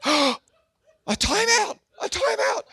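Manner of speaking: very high, incredulous squeak; scoffing at it in a high voice; mock disbelief. Mocking the mild punishment.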